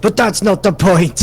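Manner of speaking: high, loud comic objection; mock protest. Real, not acted. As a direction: protest loudly over the laughter. Mock protest amid shared laughter.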